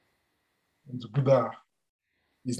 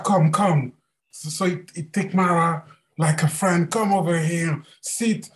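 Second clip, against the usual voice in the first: higher, kindly host voice; gentle Buddha voice; 5 semitones higher than usual. Acted. Buddha hosting Mara as a guest, higher and kind. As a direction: welcome an old friend gently.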